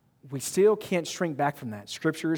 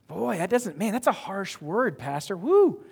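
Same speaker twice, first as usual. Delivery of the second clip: higher-pitched congregant reacting to a hard word, ending on a high woo; mock dismay; 4 semitones higher, slower than usual. Congregant reacting to the pastor's harsh word, mock dismay. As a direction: play a taken-aback churchgoer.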